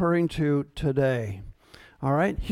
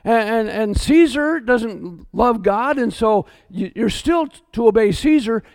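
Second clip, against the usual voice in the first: mocking other pastors. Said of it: "here's what they would say".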